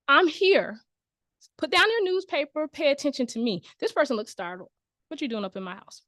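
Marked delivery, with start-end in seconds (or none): 0.1-3.6 Sam barging in. Acted. Presenter acts out Sam barging in. 5.1-6.0 startled homeowner. Acted. Startled homeowner confronts Sam.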